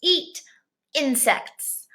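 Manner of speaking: a hint of a frog voice. Teacher voicing the frog to the kids, lightly. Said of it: "the frog says".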